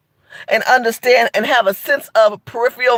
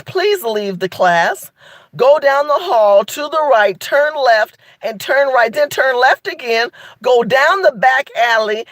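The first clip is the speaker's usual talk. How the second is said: sarcastic teacher dismissal. Retold or imitated. To white Facebook commenters, a mocking teacher's dismissal. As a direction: usher them out like a smug teacher. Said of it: "I said".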